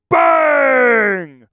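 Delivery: loud high bang of a shout; excited shout. Real, not acted. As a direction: punch it out like a fireworks pop. Celebrating a super chat.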